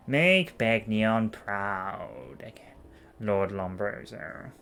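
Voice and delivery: slow scheming whisper. Acted. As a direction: breathe it out, conspiratorially. Senator whispers order.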